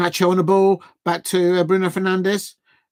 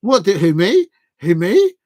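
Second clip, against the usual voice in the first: louder, pitched-up who-me protest; hammed-up innocent who me; mock innocent player; 6 dB louder than usual. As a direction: play the fouling player acting innocent. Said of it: "He's like".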